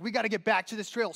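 fast, urgent mock panic; lost hiker urging friend back to the trail, fast; panicky. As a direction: rush it out in mild panic. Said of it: "the panic kind of starts".

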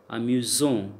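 "amusant" with the s voiced as z; z sound. Shown as a demonstration. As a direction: buzz the s in "amusant" like a z. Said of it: "z sound".

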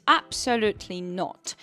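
"absolutely" leaned on firmly, a bit slow; firm but polite, punch "absolutely"; stress on absolutely. Shown as a demonstration. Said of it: "mocniejszym akcentem na absolutely". (mocniejszy akcent na "absolutely")

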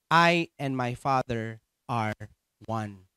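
slow, deliberate Bible reading; scripture reading. Acted. Preacher reading Jesus' words about the sheep, slow scripture reading. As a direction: read steadily, drawing out the verse.

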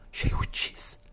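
breathless whisper of disbelief; barely voiced, stunned whisper; whispered horror. Sonia whispers the realisation. (șoaptă îngrozită)

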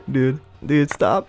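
loud yelled dude stop; laughing yell; laughing shout. Real, not acted. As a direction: shout at the opponent through laughter.

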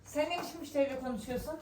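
shouted telling-off at a colleague; scolding shout. Acted. Boss shouts at Pakize for how she talks to customers. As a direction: snap at her for being rude.

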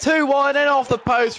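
high, loud goal yell; excited goal shout. Real, not acted. Gamer screaming as his striker scores. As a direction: erupt as the ball goes in.

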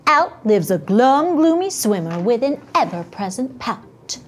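put-on lilting read-aloud to children; story narration. A narrator's reading. Teacher reading The Pout Pout Fish aloud, expressive narration. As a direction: read it with a gently theatrical storybook swing. Reads picture book to children.

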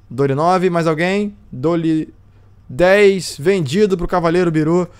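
drawn-out auction countdown; auctioneer. Acted. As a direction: call the lots like an auctioneer.

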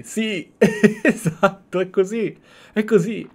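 amused reaction breaking into laughter; laughing excitedly. Real, not acted. Streamer reacting to the game cutscene, laughing.

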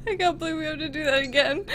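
recovering from a laughing fit; crying with laughter. Real, not acted. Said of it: "I'm actually crying".

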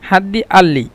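"আল্লি" opens on a hamza in place of qaf; Egyptian hamza for qaf. Shown as a demonstration. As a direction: say "আল্লি" with a glottal catch, no q. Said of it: "কফকে মিশিটা হামজা".

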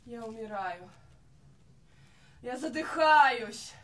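soft, faint lament with long pauses; wounded despair. Acted. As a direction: sigh it out quietly like a dying diva. Singer acts wounded, dying despair.

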